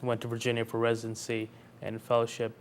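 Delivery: usual speaking voice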